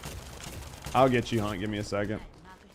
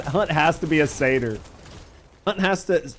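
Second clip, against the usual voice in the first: normal talking voice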